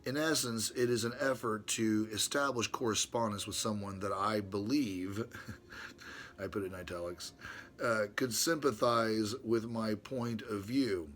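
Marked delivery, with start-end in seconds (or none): 0.0-5.2 louder, measured reading of an epistle; reading his letter to Brother Ron aloud, formally. Acted. 8.1-11.1 louder, measured reading of an epistle; reading his letter to Brother Ron aloud, formally. Acted.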